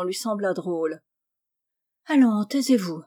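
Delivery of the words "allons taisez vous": maternellement. Acted. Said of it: "reprit-elle maternellement".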